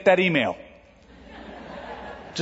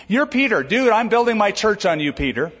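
mock Jesus; 6 semitones higher than usual. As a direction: toss it off like a casual Jesus. Mock paraphrase of Jesus to Peter.

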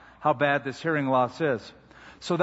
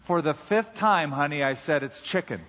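exasperated wife. Acted. Wife turns around to answer husband, exasperated. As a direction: spell it out with worn patience.

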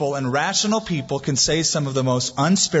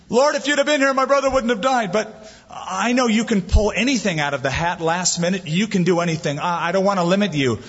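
Martha venting; 3 semitones higher than usual. Retold or imitated. Martha complaining to Jesus at the tomb, high and pleading. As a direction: voice Martha's hurt honesty, pitched up. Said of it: "there's Martha".

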